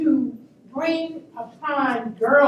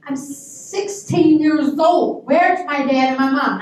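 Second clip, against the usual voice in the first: loud, drawn-out retold alarm; mock-panicked teenage protest; indignant; 2 semitones higher, 5 dB louder, slower than usual. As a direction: stretch the age out, then demand loudly. Retold alarm, alone with the man.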